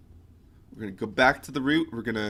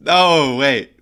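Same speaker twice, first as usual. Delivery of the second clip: surprised; 12 dB louder than usual. Real, not acted. Sudden realisation while searching files.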